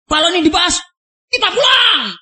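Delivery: mock shout rising high on pulang; half-hearted furious yell; retold angry threat. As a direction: imitate the angry threat to walk out. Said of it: "berteriak keras".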